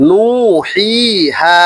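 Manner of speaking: নুহিহা drawn out slowly with lengthened vowels; stretched long vowels. Shown as a demonstration. Teacher showing students how to lengthen vowels, slow and drawn. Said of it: "একটু খেয়াল করেন".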